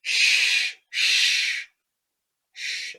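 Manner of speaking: sharp loud hiss of a shush; loud breathy shushing; urgent shushing. Acted. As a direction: shush him fast before he wakes everyone. Hushing the ranger.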